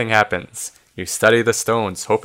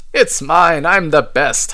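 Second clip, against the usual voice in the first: loud, higher squabbling holler; hollered boast; 5 semitones higher, 4 dB louder, slower than usual. A narrator's reading. Malice fighting for the key, hollering. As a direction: holler over the rivals. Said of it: "hollers Malice".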